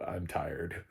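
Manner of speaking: a flat, drained whisper, one level only; mock tired whisper. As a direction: breathe it out like a listless sick girl. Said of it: "you really only have one level".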